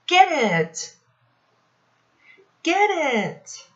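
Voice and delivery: high, urgent get it; mock panic. Teacher pretending a spider is on her back. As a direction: squeal for help.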